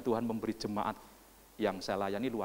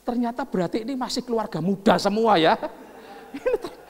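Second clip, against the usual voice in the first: higher, louder call to the room; loud teasing announcement; 13 semitones higher, 12 dB louder than usual. Real, not acted. Preacher to congregation finding hardly any long-married couples, loud and teasing.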